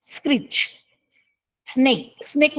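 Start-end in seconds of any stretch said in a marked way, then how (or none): 0.0-0.6 high, soft screech; bat screech. Shown as a demonstration. Teacher demonstrates the bat's screech for pupils, high and thin. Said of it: "आवाज असतो स्क्रिच".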